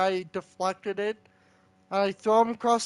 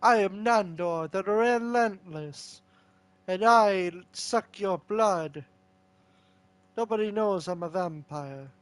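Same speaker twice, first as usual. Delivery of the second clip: Nandor. Acted. Player introducing himself as a vampire, light impression. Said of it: "Do your best Nandor impression".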